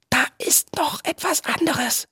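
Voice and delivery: soft, halting, scared whisper. A narrator's reading. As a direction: whisper a frightening discovery. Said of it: "flüsterte Viggo". (ängstliches Flüstern)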